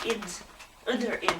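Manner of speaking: "id" and "ud" as separate short syllables; isolated "id", "ud", carefully shown; sounded ending vowel. Shown as a demonstration. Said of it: "you do want to hear the uh sound".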